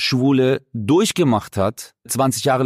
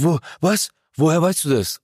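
nervous stammer; 3 semitones higher than usual. Retold or imitated. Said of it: "der so voll nervös".

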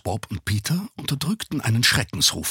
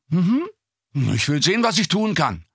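expressionless; 8 semitones higher, 4 dB louder than usual. A narrator's reading. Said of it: "versprach Justus mit ausdrucksloser Stimme".

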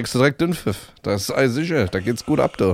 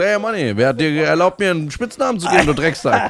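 mock confrontation; 4 semitones higher than usual. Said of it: "Der so, ich so".

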